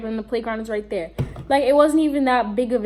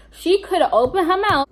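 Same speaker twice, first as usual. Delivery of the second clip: a New York accent slipping out, a bit louder; New York accent, annoyed and a little louder; 6 semitones higher, 4 dB louder than usual. Real, not acted. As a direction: let the New York accent show on the complaint. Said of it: "I know you heard that New York accent".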